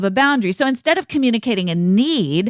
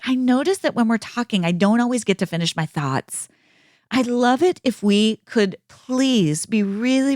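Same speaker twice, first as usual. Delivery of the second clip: calm. Shown as a demonstration. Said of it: "say to someone very calmly".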